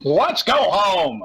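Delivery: slow, drawn-out; slow deliberate. Acted. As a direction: stretch each word slowly. Voicing a character line.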